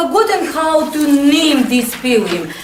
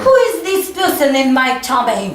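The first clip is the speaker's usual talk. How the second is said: model reading. Shown as a demonstration. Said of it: "Repeat after me".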